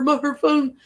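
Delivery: freaking out. Retold or imitated. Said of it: "he's freaking out".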